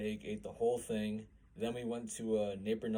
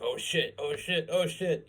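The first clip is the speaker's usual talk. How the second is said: imitating a friend's rising panic, higher and louder each time; mock panic; 7 semitones higher, 7 dB louder, slower than usual. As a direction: act out mounting alarm, pitch climbing. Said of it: "Connor starts panicking".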